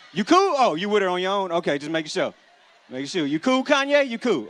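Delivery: high, loud, prying questions; mock concerned check-in. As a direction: pester him like a worried friend. Checking on Black man with white woman.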